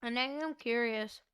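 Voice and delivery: talking around an ice cube; words muffled by ice cube; ice in mouth. Real, not acted. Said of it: "I have an ice cube in my mouth".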